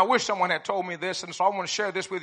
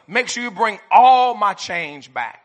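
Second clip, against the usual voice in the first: stern dad voice; 9 dB louder, slower than usual. Retold or imitated. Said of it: "How about this one?".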